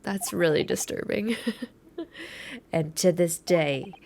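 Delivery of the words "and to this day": McGilded. Acted. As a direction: draw out the grim tale in a slight put-on accent. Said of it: "I keep changing his accent".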